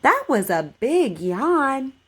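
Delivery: slow, careful model sentence for repeating; over enunciating. Shown as a demonstration. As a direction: say each word clearly and slowly. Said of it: "Just repeat after me".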